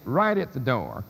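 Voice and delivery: "right" stressed in "right at the door"; stress on the supplied word. Shown as a demonstration. Lecturer reading out an italicized word, "right" stressed. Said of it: "just to emphasize the word".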